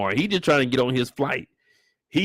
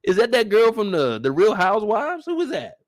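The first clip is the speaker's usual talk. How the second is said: imitating the ladies; 7 semitones higher than usual. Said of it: "The ladies back here like".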